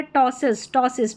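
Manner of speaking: टॉसिस starting straight on t; silent P. Shown as a demonstration. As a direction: say टॉसिस with no p before the t. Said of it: "पी silent है".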